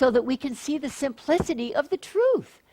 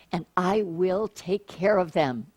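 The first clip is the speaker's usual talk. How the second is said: slow, soft "I will take care of them", dwelling on "care"; slow reassuring read; 3 semitones lower, 4 dB quieter than usual. Acted. Preacher reading God's promise to the congregation, slow and reassuring. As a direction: lean into the promise gently.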